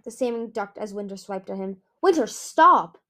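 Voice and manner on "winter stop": loud, raised urgent command; shouted. A narrator's reading. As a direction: shout to make him stop. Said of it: "Kibble shouted in his ear".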